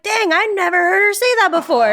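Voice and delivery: surprised reaction. Retold or imitated. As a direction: recount it with pleasant disbelief. Retelling own surprised reaction.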